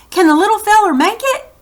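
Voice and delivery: high, fast called question; booming grandpa. Acted. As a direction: boom it across the crowd. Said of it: "he boomed".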